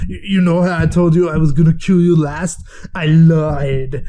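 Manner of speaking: bad mock Austrian accent, punched out; hammy, poorly faked Austrian accent; terrible Schwarzenegger accent. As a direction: botch an Austrian action-hero accent. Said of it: "I know, terrible accent".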